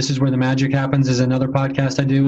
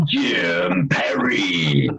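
mock trailer announcer; 2 semitones higher than usual. Co-host jokingly teasing a spooky show, mock trailer announcer. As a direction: tease the guest like a spooky TV promo.

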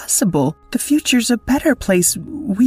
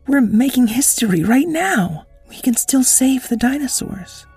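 put-on high, eager girl's voice; urgent and thrilled; excited Wendiana; 10 semitones higher than usual. Wendiana urges the dinosaur, high and excited.

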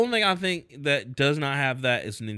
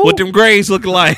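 stern parent; 3 semitones higher, 10 dB louder than usual. Retold or imitated. Parent questioning kid.

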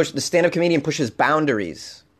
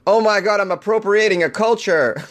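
bad German accent; a weak, hammy German accent; 7 semitones higher than usual. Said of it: "the speaker doing a German accent that isn't very good".

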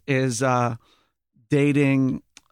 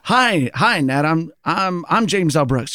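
a celebrity nervously introducing himself; eager James L. Brooks. Retold or imitated. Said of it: "and he goes".

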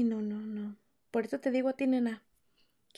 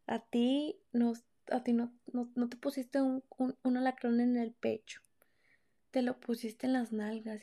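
hushed threat; 5 dB quieter than usual. Retold or imitated. Retold threat to abusive boyfriend. (amenaza susurrada y lenta)

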